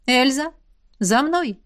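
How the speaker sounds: a mild call to follow; exclaiming. Acted. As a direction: call out briskly, lightly. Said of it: "воскликнула наставница".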